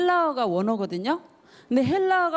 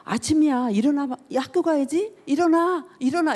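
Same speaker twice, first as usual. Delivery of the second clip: playful parent's wake-up call, a bit louder; parent waking child; 4 semitones higher, 3 dB louder than usual. Retold or imitated. Parent waking a sleeping child for school, sing-song call. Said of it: "말하자면 이런 거지".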